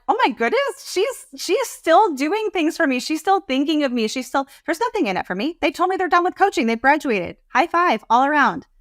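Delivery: slowed right down on the "still doing things for me" part; grateful client's delight. Retold or imitated. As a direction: act out a touched client gushing with surprise. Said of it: "I don't want someone to be like".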